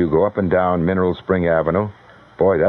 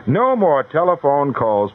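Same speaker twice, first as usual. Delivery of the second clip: firm cutoff; 7 semitones higher, slower than usual. Real, not acted.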